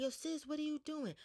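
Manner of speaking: high-pitched retold shock; alarmed protest. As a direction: imitate a friend protesting in disbelief. Shocked friend as bottle gets smashed.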